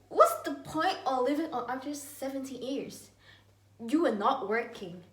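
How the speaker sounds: retold lecturing. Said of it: "I have said to her".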